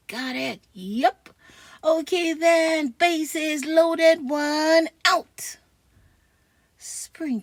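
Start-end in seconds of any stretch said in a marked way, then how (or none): 1.8-5.6 coach calling out. Real, not acted.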